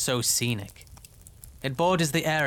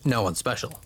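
deadpan irony, lightly lowered; understated irony; 3 semitones lower than usual. Acted. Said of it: "with flawless, understated irony".

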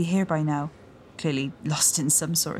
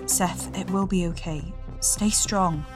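calling out; 11 semitones higher than usual. A narrator's reading. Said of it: "she called out to her husband".

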